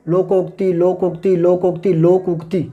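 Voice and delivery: लोकोक्ति said clearly, each syllable spoken out as लो-को-क्ति; sounding it out. Shown as a demonstration. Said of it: "बोल के देखो".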